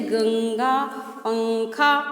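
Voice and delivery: गंगा and पंखा slowly, each bindu sounded as ng through the nose; nasal demo. Shown as a demonstration. Teacher repeating nasal examples for the children, slowly. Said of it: "ना का sound निकलेगा".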